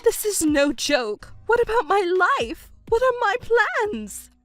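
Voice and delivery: high, rising panic; panicked mother. Acted. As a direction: fret about her own future. Mother panics about her future.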